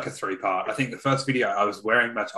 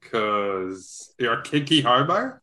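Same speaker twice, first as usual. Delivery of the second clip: teasing drawl; slower than usual. Acted. Teasing quip.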